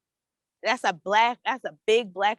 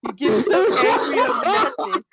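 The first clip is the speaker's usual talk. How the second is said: laughing through a mock rant. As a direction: laugh while mimicking. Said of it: "mocking the caller, laughing".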